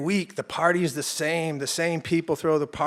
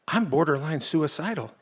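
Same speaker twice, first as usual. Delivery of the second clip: imitating a laughing friend, swelling louder; laughing disbelief; 4 semitones higher, 6 dB louder than usual. Friend on the bridge laughing at the narrator, growing louder. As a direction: retell it half laughing, building to a loud laughing finish.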